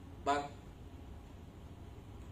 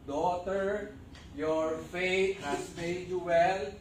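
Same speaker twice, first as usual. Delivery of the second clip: slow, tender reassurance; slowly and kindly tell her she is healed; Jesus gently reassuring the healed woman, slow and tender; gentle Jesus; 3 semitones higher, 3 dB louder, much slower than usual. Acted.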